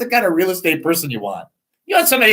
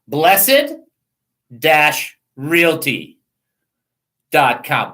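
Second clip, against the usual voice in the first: each word set apart, very slow; slow, spelled out; 3 semitones lower, much slower than usual. Shown as a demonstration. Host slowly spelling out the realtor's website for listeners. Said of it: "Okay, now watch".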